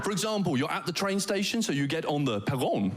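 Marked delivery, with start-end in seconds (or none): 1.6-2.9 Danish word said with a French flair; French accent. Shown as a demonstration. Comedian teaching internationals, in a French accent. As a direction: lean into a French accent on perron. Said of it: "in a French accent".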